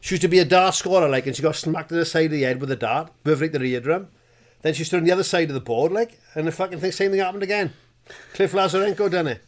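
loud, fast, laughing boast; school liar's tall tale. Acted. Liar boasting about his mother to classmates, loud. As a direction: pile on the lies, breathless and loud.

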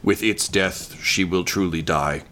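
a touch of slow, possessed murmur; lightly voiced spirit muttering through Gwendolyn. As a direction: let the words come out slow, not your own. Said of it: "mutters kind of out of Gwendolyn's mouth".

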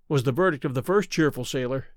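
ordinary delivery, nothing marked

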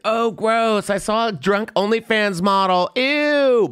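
recoil, grossed out; hammed-up valley-girl disgust; mock disgust. Disgusted at the drunk model.

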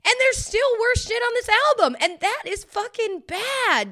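high, loud hammed-up rant; mock outrage. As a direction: keep ranting in a silly voice. Continues mock rant, high far.

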